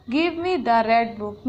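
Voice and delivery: slow, carefully spaced words; teacher dictating an example, slow; slow example reading. Shown as a demonstration. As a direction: read the example slowly for the class. Example sentence read out.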